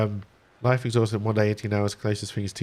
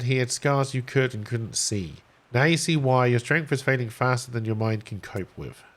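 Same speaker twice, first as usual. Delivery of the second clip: measured read-aloud of game text; story narration. A narrator's reading. Streamer reading the stranded survivor's tale to viewers, narrating.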